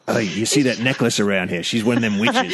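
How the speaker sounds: lightly put-on Cockney husband; amused Cockney aside; Cockney accent. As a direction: confide in mock Cockney. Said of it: "it's, it's Cockney".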